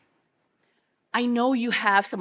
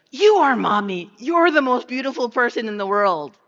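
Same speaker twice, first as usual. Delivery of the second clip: put-on higher, louder, eager little girl's answer; imitating her daughter; 4 semitones higher, 5 dB louder than usual. Mother voicing her young daughter answering her question, higher eager child voice. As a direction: mimic a child's earnest reply. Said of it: "She looks at me and she goes".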